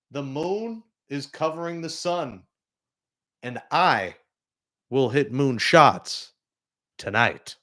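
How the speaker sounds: slow, solemn pronouncement with dramatic pauses; slow, portentous mock proclamation; mock prophecy. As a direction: imitate a man announcing a divine revelation. Voicing player's prophecy after seeing God.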